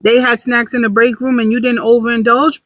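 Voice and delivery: lightly hyped self-congratulation; praising herself. Acted. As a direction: marvel a little at your own small win. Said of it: "gonna start praising myself for the little things".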